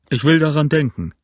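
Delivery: "Ich will daran denken" with odd, ambiguous emphasis; peculiar emphasis. A narrator's reading. Silver answers Jim's request with peculiar emphasis on "Ich will daran denken". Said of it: "mit einer so sonderbaren Betonung".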